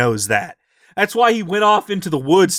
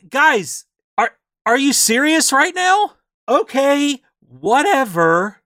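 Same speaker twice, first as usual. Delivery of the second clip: higher, incredulous groan at everyone; exasperated; 8 semitones higher than usual. Retold or imitated. Player groaning at the party ignoring the book, exasperated. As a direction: throw up your hands in disbelief.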